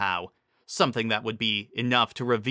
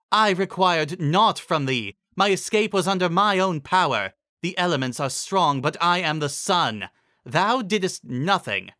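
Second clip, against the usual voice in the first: crush the zebra with each word; wrathful queen; 6 semitones higher, 3 dB louder than usual. Acted. Furious queen rebukes zebra.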